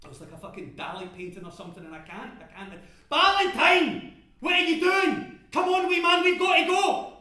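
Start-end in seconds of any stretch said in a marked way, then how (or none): 3.1-7.1 high, very loud hollering; urgent calling. Acted. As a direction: shout to hurry a frozen workmate. Charlie calls to a frozen workmate.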